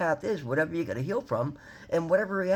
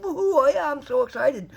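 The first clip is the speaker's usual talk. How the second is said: excited cheer; 11 semitones higher, 6 dB louder than usual. Retold or imitated. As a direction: whoop it up, high and loud. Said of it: "I walk away laughing".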